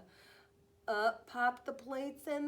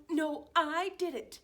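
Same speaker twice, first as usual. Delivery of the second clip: competitive boast; 7 semitones higher, 8 dB louder than usual. Acted. Dogs arguing proudly.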